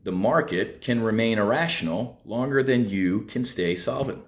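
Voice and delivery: slow and deliberate, each word spaced out; slowly. Shown as a demonstration. Repeating a market maxim to his viewers, slow and deliberate. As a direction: spell it out slowly so the maxim sinks in. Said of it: "say that again slowly".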